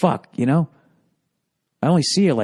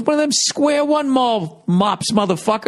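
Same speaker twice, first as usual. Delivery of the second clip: imitating Patrice; 9 semitones higher than usual. Patrice impression in a retold call.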